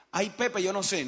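whiny doubt. Pretend. Downline member whining doubt.

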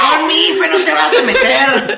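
playful threat. Pretend. Joining the dream fight.

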